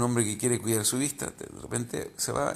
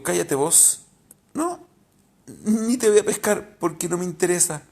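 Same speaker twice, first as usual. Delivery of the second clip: louder, higher brush-off; firm retort; 5 semitones higher, 4 dB louder than usual. Retold or imitated. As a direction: shut the inner voice down firmly. Answering the inner voice. (réplica firme y más fuerte)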